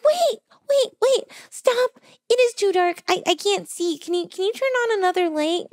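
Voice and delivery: high, loud, urgent wait wait stop; frantic calling out. Retold or imitated. Client in total darkness calling the masseur back, panicked and loud. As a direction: call him back in a rush before the door shuts.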